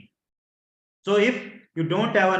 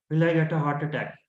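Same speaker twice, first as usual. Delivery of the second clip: fearful; 2 semitones lower, faster than usual. Shown as a demonstration. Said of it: "You are fearful".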